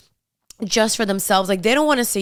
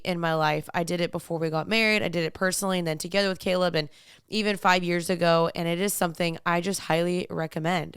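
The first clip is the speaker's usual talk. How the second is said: measured, softer podcast ad read; sponsor ad read; 5 dB quieter than usual. Acted. Host recommending online therapy to listeners, measured ad read. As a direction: read the sponsor copy in an even, earnest way.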